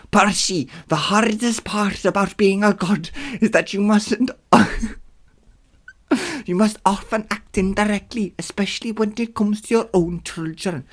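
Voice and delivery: high put-on accented god voice; Hermes. Hermes telling Percy about being a god, high put-on voice. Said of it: "Hermes readjusted his mail bag".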